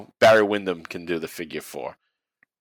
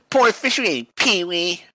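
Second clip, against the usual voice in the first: higher put-on teasing voice; mock scolding, higher; 7 semitones higher than usual. Shown as a demonstration. Repeating his joke to his cohost, silly higher scolding. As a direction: tease the referee in a silly voice.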